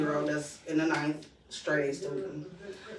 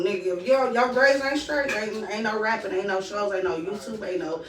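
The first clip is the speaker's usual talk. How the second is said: stern parent lecture; 2 semitones higher than usual. Retold or imitated. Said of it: "'Cause I told them".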